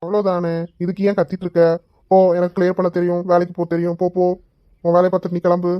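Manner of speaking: cheeky, dismissive retort; insolent back-talk. Acted. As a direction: brush her off with cool defiance. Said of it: "என்ன தெனாவட்டா பதில் சொல்றியா".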